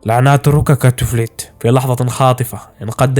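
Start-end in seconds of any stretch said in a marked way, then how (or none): 0.1-1.5 slow, feeble dying voice; faint, slowed-down murmur of a wounded man; weak mumble. A narrator's reading. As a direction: drag the words out weakly. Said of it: "ولكنه تمتم بصوت ضعيف".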